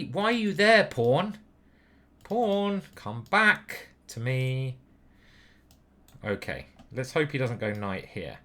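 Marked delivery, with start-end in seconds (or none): 0.0-4.8 mock pleading to pawn.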